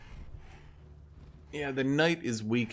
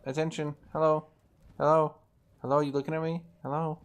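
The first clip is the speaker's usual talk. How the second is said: insistent cat voice; 5 semitones higher than usual. Retold or imitated. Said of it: "she's like".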